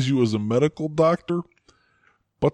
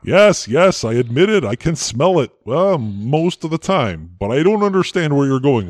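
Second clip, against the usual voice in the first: loud; 3 semitones higher, 6 dB louder than usual. Acted. Flustered forced admission.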